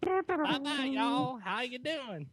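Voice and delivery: high hammed-up Southern goodbye; Southern accent. Signing off the show in a mock Southern accent. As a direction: drawl out a hokey Southern farewell. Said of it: "You can't do the Southern accent".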